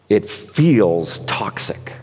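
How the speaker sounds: slow breathy whisper of disgust; hushed slow whisper. Real, not acted. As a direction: whisper it slowly, almost to yourself.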